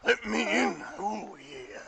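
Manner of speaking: high, loud demand easing into a drawn-out call; mystery visitor voice. Acted. Game master repeating the visitor's call at the door, showy holler. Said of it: "you just hear that voice just".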